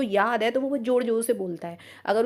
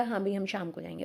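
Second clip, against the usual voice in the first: calm quiet quote; 3 semitones lower, 8 dB quieter than usual. Retold or imitated. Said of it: "शांत रहेगा".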